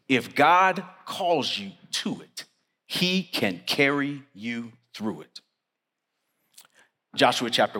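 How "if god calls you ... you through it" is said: slow, spaced out, pausing between words; slow emphatic repeat. Shown as a demonstration. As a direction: let each word of "he can carry you through it" land separately.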